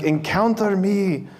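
a slow, lightly put-on Pope Francis accent; bad Pope Francis accent.

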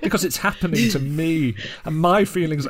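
lightly mocked self-pitying narrator; milk the woe a little, stressing "me"; self-pitying Frankenstein. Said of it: "Frankenstein is kind of narrating it all".

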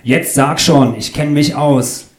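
insistent. Acted.

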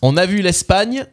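measured spoken lyrics, each line set apart; lyric recitation. Acted. Quiz host repeating lyrics on request, measured recitation. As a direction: recite the words like verse, without singing.

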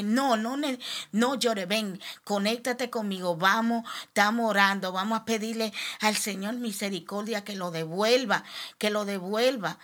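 pressing, rising urgency in the retelling; retold urgent plea. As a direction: urge him to pray with you, half-reliving it. Urging husband to pray with her.

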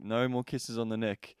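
mock English accent, drawn out; bad English accent. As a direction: imitate her English accent, badly. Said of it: "that was a fucking bad English accent".

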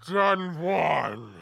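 slow, ominous quiz host; ominous hooded stranger. Acted. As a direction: announce it slowly and darkly. Villain announces question.

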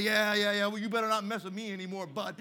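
loud, quick cocky warning; cocky swagger. Retold or imitated. Boy warns the bully off with cocky swagger. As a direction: strut as you say it.

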